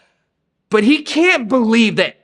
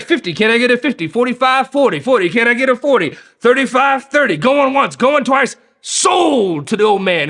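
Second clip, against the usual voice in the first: mock auctioneer patter, a touch higher; 4 semitones higher than usual. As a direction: rattle off bids like an auctioneer. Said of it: "this is like an auction".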